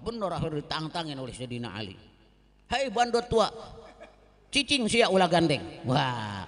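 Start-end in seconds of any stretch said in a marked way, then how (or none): 2.7-5.6 loud, scornful Sundanese taunt; angry challenge. Acted. Ali taunting the enemy warrior, loud and scornful. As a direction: bark the insult at the old goat.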